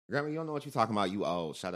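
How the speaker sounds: sassy grandkid. Retold or imitated. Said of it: "We was like".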